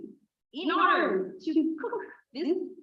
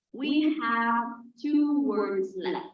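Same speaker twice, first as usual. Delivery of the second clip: slow emphasis; slower than usual. Shown as a demonstration. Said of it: "slow emphasis".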